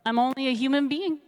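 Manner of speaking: lightly pleading prayer, pitch lifted; acted prayer. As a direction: appeal humbly to God, as in a retold story. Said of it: "She prays".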